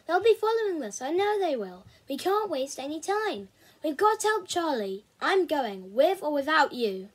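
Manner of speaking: pressing a friend to act; urgent insistence. Acted. Urgent argument to keep going.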